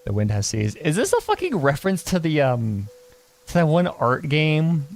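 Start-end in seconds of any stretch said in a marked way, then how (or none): 0.1-0.8 lightly voiced old man. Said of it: "I gotta put on the old man voice".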